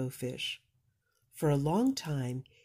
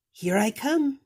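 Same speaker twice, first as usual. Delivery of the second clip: higher, louder cheerful call; happy reply; 8 semitones higher, 7 dB louder than usual. Acted. Rainbow Fish answering his friends, loud and glad. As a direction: sing out gladly.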